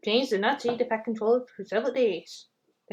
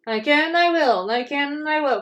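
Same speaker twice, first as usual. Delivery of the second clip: a hint of high, determined chugging; lightly voiced panting resolve; puffing determination; 3 semitones higher than usual. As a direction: puff it out like a climbing engine. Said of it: "puffed James".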